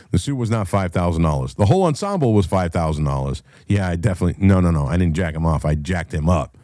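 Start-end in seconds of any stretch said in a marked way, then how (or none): none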